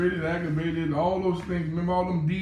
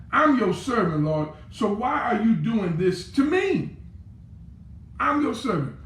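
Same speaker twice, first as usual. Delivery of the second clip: anguished plea; 4 semitones higher than usual. Acted. Preacher voicing Moses complaining to God, high pleading. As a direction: cry out to God like a worn-out servant.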